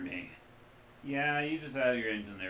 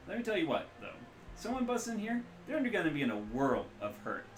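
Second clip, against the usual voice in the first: hungover rigger; 8 semitones higher than usual. Acted. Ambrose boasting, high.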